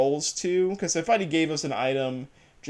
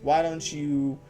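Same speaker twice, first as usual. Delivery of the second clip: put-on southern accent. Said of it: "a southern accent with a female voice".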